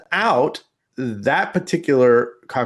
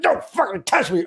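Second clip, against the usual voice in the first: high mock dog voice; 13 semitones higher than usual. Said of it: "he's like".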